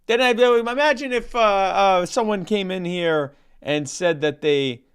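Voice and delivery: a hint of Norm's dry, meandering storyteller voice; Norm Macdonald impression. Telling the Polish sausage joke to his cohost in a mild Norm-style deadpan. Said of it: "cease and desist from the Norm Macdonald estate".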